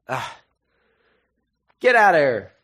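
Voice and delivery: loud, high mock shout of exasperation; acted frustrated yell; annoyed outburst. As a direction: snap and yell it, fed up with a pest. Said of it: "Paul just gets annoyed".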